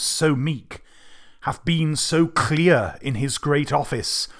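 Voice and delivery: measured Shakespeare soliloquy with weighted pauses; dramatic verse reading. Acted. Tutor reading Macbeth's soliloquy through for students, dramatic verse reading. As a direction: build gradually through the verse, then drop away at the close.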